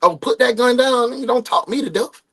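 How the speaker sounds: mock pleading. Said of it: "I was like".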